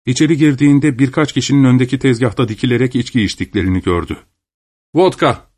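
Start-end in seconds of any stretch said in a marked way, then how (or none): 4.9-5.5 higher-pitched call, a mild shout. A narrator's reading. Customer ordering at the tavern counter, calling out. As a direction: call out an order across the room. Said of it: "diye bağırdı".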